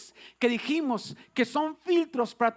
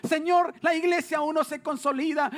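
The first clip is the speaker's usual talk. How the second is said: imitating upset disciples, slightly raised pitch; mock distraught lament; 3 semitones higher than usual. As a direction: plead as the bereft followers, lightly acted. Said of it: "los discípulos llorando, muchos gritando". (lamento angustiado, levemente actuado)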